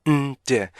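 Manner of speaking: "whip, 막, it, 음, 제" as separate stopped beats; punchy syllable-by-syllable drill with gaps; five-beat breakdown. Shown as a demonstration. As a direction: chant the pieces of remind one by one. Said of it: "총 다섯 개의 리듬으로".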